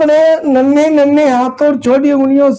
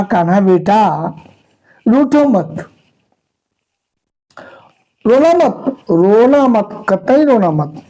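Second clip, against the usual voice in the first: a gentle hint of a loving mother; tender coaxing mother. Mother Yashoda soothing sulky little Krishna, tender coaxing. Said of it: "प्रेम से स्नेह से कान्हा को दुलार किया".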